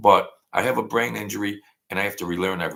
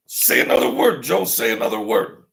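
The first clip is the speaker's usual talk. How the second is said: acted scolding; 2 semitones higher, 7 dB louder than usual. Someone warns Joe about his begging, loud mock scolding. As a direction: play someone telling Joe off. Voices a scolder addressing himself.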